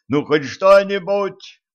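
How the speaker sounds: high, loud, slow begging cry; desperate plea. A narrator's reading. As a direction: beg with everything left. Father begs for anything. (отчаянная мольба)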